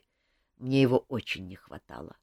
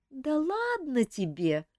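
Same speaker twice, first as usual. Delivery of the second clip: conciliatory; 11 semitones higher, slower than usual. A narrator's reading. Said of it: "примирительно заметила Камилла".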